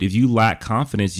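ordinary talk

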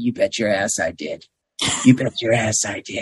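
low, deep, whiskey-and-smoke smoker's voice. Quoting a character from a series who answers questions: imitating a deep, whiskey-and-cigarette voice. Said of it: "with his deep, you know, whiskey drinking or scotch drinking".

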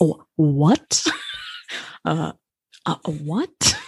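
very slow, stretched-out voice with swooping, wandering pitch. Repeating a Jeff Goldblum line, laughing: Jeff Goldblum voice. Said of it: "We're doing the voice of Jeff Goldblum".

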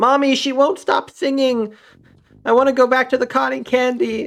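put-on very high little kid voice. A storyteller voices a child speaking to its mother, in a child's voice. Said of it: "you hear a child's voice say".

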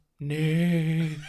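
loud, long, drawn-out horse neigh. Telling a war story about a calm horse, doing a horse impression. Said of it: "Good horse impression".

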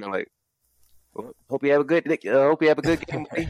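put-on country Canadian accent. Speaker imitating Toronto fans greeting someone in another jersey, country Canadian accent. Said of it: "I did a fucking Alabama accent, but that's my country Canadian accent".

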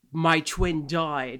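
convincing put-on British accent. Quoting a tv character in a trauma center scene: british accent. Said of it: "was a good British accent".

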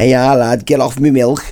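talking cow voice, Liverpool Scouse accent. Asked what a Scouse cow would sound like, answering in a Scouse cow voice. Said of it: "What would a ca- Scouse cow sound like".

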